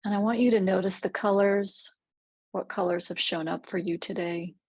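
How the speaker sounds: measured meditation voice with long pauses; guided meditation. Real, not acted. Guide leads listeners through a rose clearing visualization, calm meditative delivery. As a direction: guide gently, leaving space between phrases.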